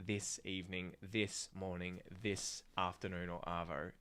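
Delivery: "this" said in full before "evening", "morning", "afternoon"; full, separate THIS. Shown as a demonstration. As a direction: keep "this" apart from the following word, not blended. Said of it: "that's why it sounds weird".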